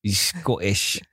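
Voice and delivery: attempted Scottish accent. Husband inventing a character for his sock puppet, attempted Scottish accent. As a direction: try out a shaky Scottish accent. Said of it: "That wasn't Scottish, was it".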